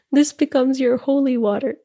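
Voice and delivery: real, tearful laugh on "This becomes your holy water"; moved to tears, laughing. Real, not acted. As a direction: let the emotion break through the laugh on "holy water". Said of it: "I think I'm gonna cry again".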